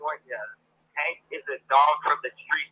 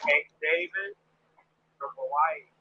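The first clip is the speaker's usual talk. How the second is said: faint distant caller; phone held away; 6 dB quieter than usual. Real, not acted. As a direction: voice far from the phone. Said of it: "You sound far away".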